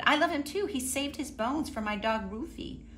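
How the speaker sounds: put-on a high, eager old lady; Missus Weed's voice. Missus Weed joining in for Mister Hatch, high and eager.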